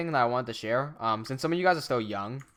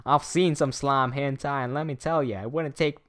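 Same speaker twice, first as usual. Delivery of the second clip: US countryman twang, played for laughs; hammed-up rural American accent; 3 semitones higher, 4 dB louder than usual. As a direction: read it like an American country man. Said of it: "I gotta read this in an accent".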